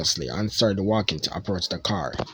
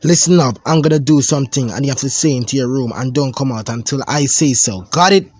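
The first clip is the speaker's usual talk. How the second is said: bossy cousin order; 2 semitones higher, 4 dB louder than usual. Acted. Ben orders cousin to room.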